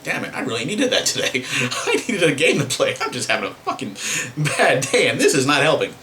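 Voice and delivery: chuckling while quoting his own complaint; laughing through it. Retold or imitated. Venting to viewers about a missed game, laughing. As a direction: let a laugh break through the gripe.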